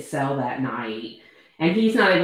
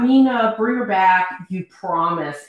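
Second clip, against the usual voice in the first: raised-voice mock yell, then dropping off; retold yell. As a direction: call out in half-voiced desperation. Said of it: "And he yells out".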